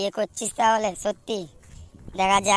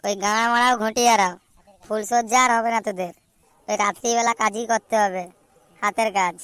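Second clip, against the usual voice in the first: angry scolding. Acted. Friend scolds his whining buddy.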